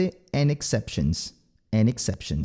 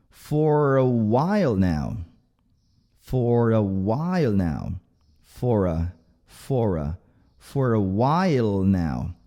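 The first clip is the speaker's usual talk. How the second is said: slow drill; 5 semitones lower, slower than usual. Shown as a demonstration. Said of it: "colocar sua língua no céu da boca".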